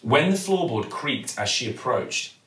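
plain reading voice

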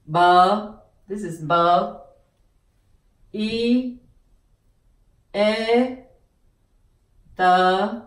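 bờ, Y, e, tờ each said alone and clearly; name each letter of biệt; spelling out sounds. Shown as a demonstration. Teacher spelling biệt letter by letter. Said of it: "And this is biệt".

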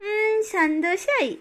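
put-on slow, drawn-out childish satisfaction; pleased child. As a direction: savour it like a child who won. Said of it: "നിനക്ക് സന്തോഷായില്ലേ?".

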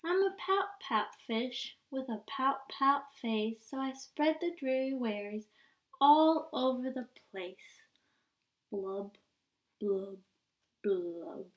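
sing-song mope of a pouting fish; droopy refrain, blubs trailing off; glum pout pout fish. Acted.

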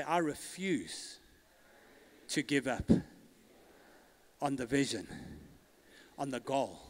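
quiet vow for the congregation to repeat; soft declaration. Acted.

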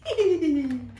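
short whinnying chuckle; a brief pleased giggle; happy horse laugh. Acted. Happy horse's laugh after boast.

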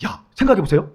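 ordinary delivery

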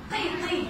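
"قي" with a back q before a long ee; "qee", not a front "kee"; heavy qaf with i. Shown as a demonstration. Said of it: "بنطقه بقى".

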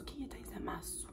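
very soft puzzled whisper; hushed, voiceless question to yourself; whispered aside. Real, not acted. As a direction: ask it under your breath. Puzzled aside about an unknown name.

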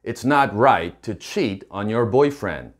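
slow, deliberate English; slow model sentence. Shown as a demonstration. Teacher modelling the girlfriend's line slowly. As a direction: spell it out for the learners. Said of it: "이렇게 얘기하면 되는데요".

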